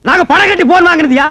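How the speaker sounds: loud, affronted retort; indignant shouting. Acted. Landlord insulted by caller about his phone, indignant shouting. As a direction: shout back in offended protest. Quarrel over mistaken phone call.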